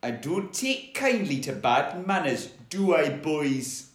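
Geordie dinosaur talking to henchmen; measured Geordie warning; Geordie velociraptor. Acted. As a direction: menace them lightly in Geordie. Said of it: "he might be a Geordie Velociraptor".

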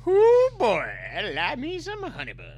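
hammed-up folksy voice. Mocking previous line, laughing.

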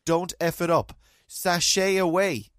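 slow, sassy drag host voice; drawn-out sashay away; a famous drag host's catchphrase. Retold or imitated.

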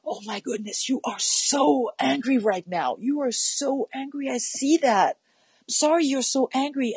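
put-on name the tantrum back to the child with big empathy; mirroring anger. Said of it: "a little bit of an actor".

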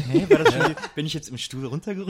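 hoch und verdutzt, mit Lachen; verwirrt lachend. Retold or imitated. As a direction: fragt sich lachend, was los ist. Confused cinema-goer voiced. (verdutzter Zuschauer, lachend fragend)

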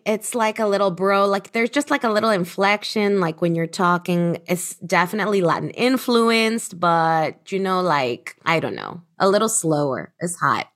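light Latin-influenced Miami lilt; Miami accent. Shown as a demonstration. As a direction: channel a laid-back Miami accent. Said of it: "Can you channel it for us?".

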